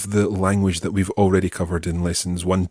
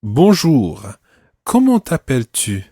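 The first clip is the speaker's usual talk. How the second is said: model conversation; 3 semitones higher, 4 dB louder than usual. Shown as a demonstration. Teacher replays practice conversation with student, clearly projected role-play. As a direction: open a demonstration dialogue with emphatic pitch. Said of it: "Let's listen to it one more time".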